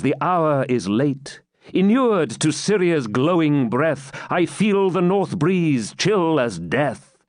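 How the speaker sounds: measured ballad verse reading; poem recitation. Acted. Knight's song recited as verse.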